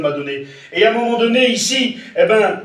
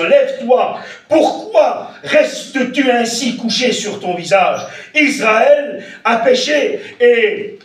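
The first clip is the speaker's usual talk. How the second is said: stern divine rebuke; 5 semitones higher than usual. Acted. Voicing God's rebuke slowly.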